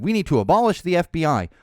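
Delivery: loud mock rally chant; a touch of mocking outrage; mocking MTG. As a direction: belt it like a protest slogan. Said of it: "has said".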